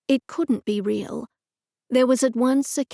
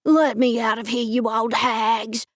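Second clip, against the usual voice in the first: angry caged man. Acted. Caged man yelling at aunts.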